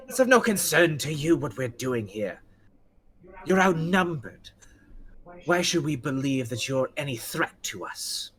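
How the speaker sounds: lightly acted haughty retort; mildly scornful character voice; defiant challenger. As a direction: stand your ground against a rival. Game master voices the defiant challenger.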